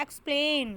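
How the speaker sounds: एक्सप्लेन leaning on its second syllable; stress on PLAIN in एक्सप्लेन. Shown as a demonstration. Teacher demonstrating syllable stress, प्लेन stressed in एक्सप्लेन. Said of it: "प्लेन पे जा रहा है".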